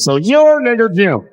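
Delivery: put-on boy's slow question. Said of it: "Huckleberry Finn walks up to him and goes".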